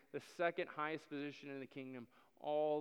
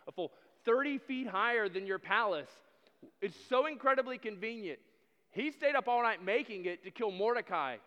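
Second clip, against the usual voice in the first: loud, higher, gleeful tattling; a servant delighted to tell the king; eager servant; 5 semitones higher, 10 dB louder than usual. Acted.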